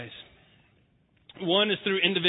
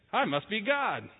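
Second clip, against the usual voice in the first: smug cat; 4 semitones higher, slower than usual. Retold or imitated. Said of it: "The cat goes".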